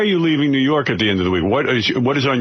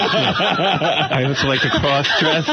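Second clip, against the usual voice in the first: laughing; 3 semitones higher, much slower than usual. Retold or imitated. Mock Artie confession, laughing.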